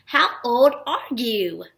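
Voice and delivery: put-on "How old are you?" slow, rising just a little on "you"; question voice. Shown as a demonstration. Teacher showing how "How old are you?" goes up, questioning voice. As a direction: ask "How old are you?" slowly, voice lifting slightly at the end. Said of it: "It goes up just a little".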